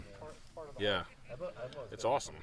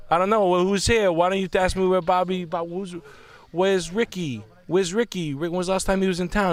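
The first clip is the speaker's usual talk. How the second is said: much higher and louder hammed-up tough-guy grilling; mock Steven Seagal interrogation; 9 semitones higher, 5 dB louder than usual. Friends joking, Seagal-style interrogation, loud and high. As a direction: lean in and grill the informant, over the top.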